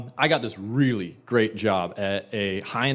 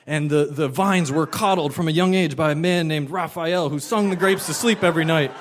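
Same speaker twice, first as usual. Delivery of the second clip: wine salesman; 3 semitones higher than usual. Retold or imitated. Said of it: "I was like".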